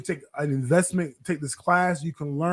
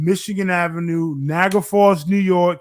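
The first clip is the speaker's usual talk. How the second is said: announcer call-out; 2 semitones higher, 7 dB louder than usual. Real, not acted. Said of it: "The address again for us?".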